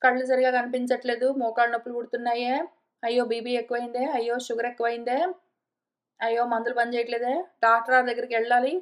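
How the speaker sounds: lightly voiced old woman, rattling off her aches fast; mild whiny lament over her ailments; a hint of a fretful old lady complaining; grieving old woman. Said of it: "ఎంతగా దుఃఖిస్తుంటుందంటే".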